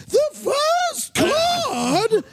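shrieked, drawn-out British lady card call; high-pitched British lady. Shown as a demonstration. Bingo caller over a microphone, shrill British lady voice. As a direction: screech it very high in a British accent. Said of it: "really high-pitched British lady voice".

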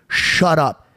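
slow, deliberate mock threat; measured menace, retold. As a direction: imitate a tough guy's threat, drawn out word by word. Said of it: "This is exactly how he worded it".

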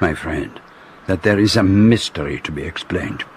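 put-on deliberate French accent with weighty pauses; French-accented detective. Detective explaining the mystery to his friend, deliberate French accent. Poirot, a character in the drama.

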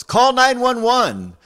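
slow, high, loud desperate yell; imitating a frightened woman yelling for help. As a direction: cry out each number slowly. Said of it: "she yells".

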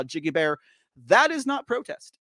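ordinary delivery

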